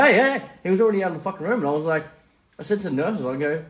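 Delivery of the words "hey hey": high, loud call after someone leaving. Retold or imitated. Patient calling after the dentist walking out, raised high shout. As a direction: re-enact hailing someone, pitch shooting up.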